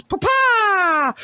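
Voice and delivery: squeaky high shouted "Pa-pa!"; Tingle-style fairy cry. Retold or imitated. Evelyn mimicked like the Majora's Mask fairy, high shout. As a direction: yelp it like a giddy little fairy. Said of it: "like, little Twinkle from fucking".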